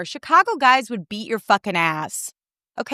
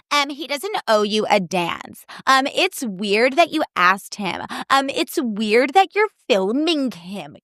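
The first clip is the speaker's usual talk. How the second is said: slow, mocking voice that drags out each "um"; mocking commenters; 3 semitones higher, slower than usual. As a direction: imitate a smug commenter with a put-down. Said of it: "They were like".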